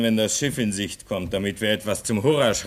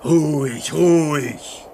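higher, louder, agitated; alarmed protest; 8 semitones higher, 5 dB louder, slower than usual. Acted. Man alarmed at being told to stay calm, agitated protest. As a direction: brush off the calming, rising alarm.

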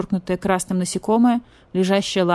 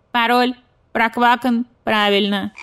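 higher, louder croaking frog; 5 semitones higher, 5 dB louder than usual. Acted. Frog relays message to badger police, croaky. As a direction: croak it like a frog answering machine.

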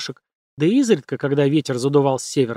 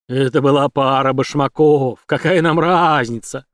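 slow creature voice; 4 dB louder than usual. Acted. Голос яга, существо у костра.

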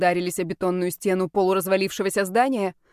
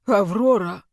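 exhaled; 4 dB louder, slower than usual. Acted. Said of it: "выдохнул он".

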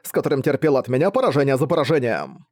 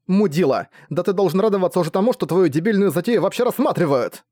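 higher, fast, scornful tirade; indignant outburst; 6 semitones higher than usual. Acted. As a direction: spit out the insult and rush on. Battery insults the rogue. (возмущённо, быстро, на высоких тонах)

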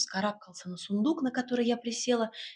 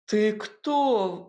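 stunned; 4 dB louder than usual. A narrator's reading. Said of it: "ошеломлённо вытаращился на меня Игнат".

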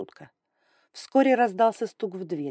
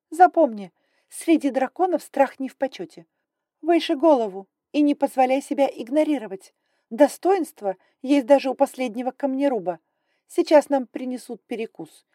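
higher, louder, brisk and imperious; haughty dragon lady; 6 semitones higher, 6 dB louder than usual. Acted. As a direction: talk down like a strict aristocrat. Grai instructs, high and loud.

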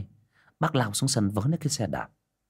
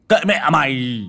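put-on higher, louder cursing old father; a loud fed-up snap; angry curse; 5 semitones higher, 8 dB louder than usual. A narrator's reading. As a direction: spit out the curse at the son. Father curses his mad son.

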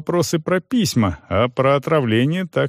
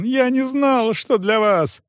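sobbing; 12 semitones higher than usual. Acted. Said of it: "рыдал Стефан".

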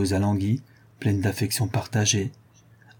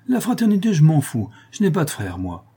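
début très aigu, rieur et plus fort; éclat de rire; 7 semitones higher, 4 dB louder than usual. Acted. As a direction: lance la boutade en riant. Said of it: "dans un éclat de rire". (Jeanne rit de la fraternité)

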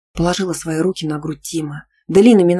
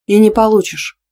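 a sharp, louder hurt snap; 5 semitones higher, 6 dB louder than usual. A narrator's reading. Girlfriend snaps at her boyfriend, hurt and loud. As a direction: bark it back, stung and sulky. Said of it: "обиженно рявкнула я".

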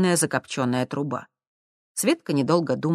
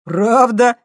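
louder, higher grinning question; 8 semitones higher, 9 dB louder than usual. A narrator's reading. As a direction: say it with a toothy smirk. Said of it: "осклабился блондин". (с ухмылкой, громко)

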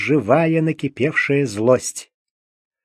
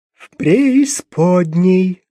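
slow, flat, matter-of-fact; calm correction; 4 semitones higher, 4 dB louder, much slower than usual. Acted. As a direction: coolly correct the word. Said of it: "совершенно спокойным тоном". (совершенно спокойным тоном)

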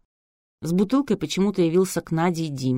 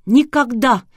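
higher, louder shrieked refusal; hysterical refusal; 7 semitones higher, 8 dB louder, slower than usual. A narrator's reading. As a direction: fling the word out in hysterics. Hysterical bride refusing the wedding.

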